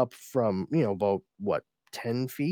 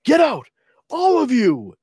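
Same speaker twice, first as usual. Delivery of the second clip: high, very loud theatrical shout; angry dismissal; 13 semitones higher, 11 dB louder than usual. Acted. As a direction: roar them out of the room. Ruler acted dismissing his guards.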